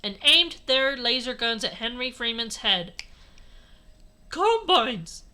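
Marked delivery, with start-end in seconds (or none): 4.3-5.2 high, loud, drawn-out yell; yelling mom. A narrator's reading. Mom yelling at the Combines, loud hammed-up plea. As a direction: yell it out slowly as a desperate mom. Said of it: "yelled Mom".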